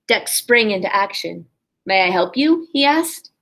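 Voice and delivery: lively storybook reading for a class; expressive read-aloud to young listeners; reading to children. A narrator's reading. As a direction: read it like a kindergarten teacher at story time. Teacher reads picture book aloud.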